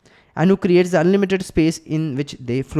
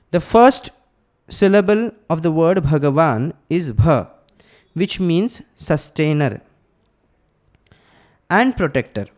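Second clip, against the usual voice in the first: slow and deliberate, spacing each phrase for note-taking; slow dictation; slower than usual. Shown as a demonstration. Teacher dictating an important definition to students, slowly and clearly. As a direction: read it out slowly so the class can write it down. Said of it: "you can write it down, it's very important".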